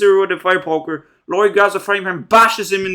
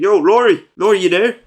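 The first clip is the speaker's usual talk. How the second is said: louder mock call over the phone; mock officer calling louder; 6 dB louder than usual. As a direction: call her name down the line.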